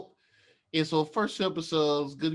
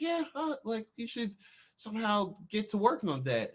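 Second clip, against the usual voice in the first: mock neighbour; 7 semitones higher than usual. Neighbour voiced.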